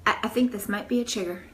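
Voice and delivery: hesitant, unruffled medic imitation; calm. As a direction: say it mildly, with careful pauses. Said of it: "he's all calm".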